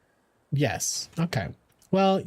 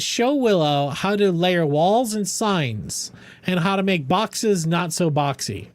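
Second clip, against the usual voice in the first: reading a note aloud; slower than usual. Shown as a demonstration. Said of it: "it says".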